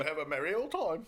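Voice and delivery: giggly mock-British lilt; bad English accent. Riffing on a pub trip, jolly fake English accent. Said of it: "we're terrible at the accent".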